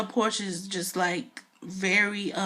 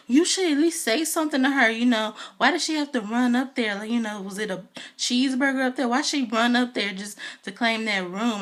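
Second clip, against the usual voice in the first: mocking Kenya; 4 semitones higher than usual. Kenya complaining about Kandi's room, mock whiny. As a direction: whine it like a fussing Kenya. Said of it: "Kenya's running around just like".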